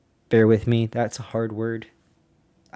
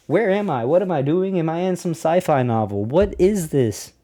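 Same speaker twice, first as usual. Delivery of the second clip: bewildered pilot; 4 semitones higher than usual. Retold or imitated. Voices Byrd's bewildered thoughts.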